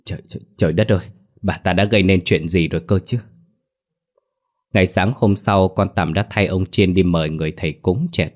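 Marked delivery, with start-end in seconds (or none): 0.1-3.2 panicked mumbling. Acted. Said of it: "miệng mấp máy hoang mang".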